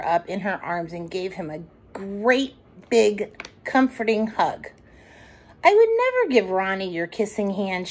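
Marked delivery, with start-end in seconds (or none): 5.6-7.9 mildly gentle reassurance; a touch of gentle reassurance; gently assuring. Acted. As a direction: soothe him like a mother. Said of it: "she assured him gently".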